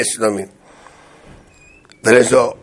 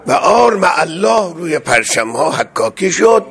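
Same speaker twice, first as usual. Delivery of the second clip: proclaiming shout; 3 semitones higher than usual. Real, not acted. Preacher proclaiming triumph.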